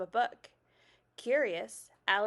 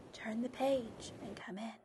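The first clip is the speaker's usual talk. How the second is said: breathy whisper, much softer; 8 dB quieter than usual. A narrator's reading. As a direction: whisper the invitation like the moon. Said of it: "whispered the moon".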